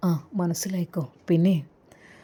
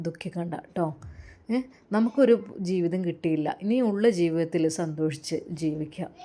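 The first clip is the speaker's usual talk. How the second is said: gentle comfort; 4 dB quieter than usual. Acted. Father consoling weeping daughter.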